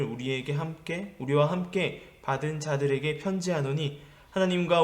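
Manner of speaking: measured, even Bible-reading voice; scripture reading. Real, not acted. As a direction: read the passage aloud, low and steady. Reads scripture aloud. (차분하게 성경을 봉독하는 어조)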